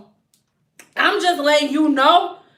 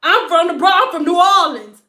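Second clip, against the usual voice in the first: louder, proud hometown boast; tough hometown boast; 3 semitones higher, 6 dB louder than usual. Retold or imitated. People boasting their tough hometown, loud and proud. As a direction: announce your city like a threat. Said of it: "you say you from".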